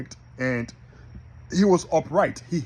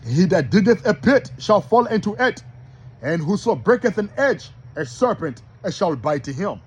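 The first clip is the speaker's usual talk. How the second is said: verse opened louder and higher; first scripture reading; 5 semitones higher, 4 dB louder than usual. Shown as a demonstration. Preacher first reads Ecclesiastes to the brothers, declaimed. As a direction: declaim the verse without slowing down. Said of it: "I'm gonna read that again slow".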